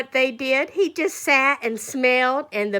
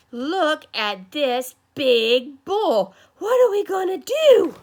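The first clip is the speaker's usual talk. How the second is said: mock alarm; 3 dB louder, slower than usual. Teacher retells the crowd facing the big bull, mock alarm. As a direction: voice climbing into a worried cry.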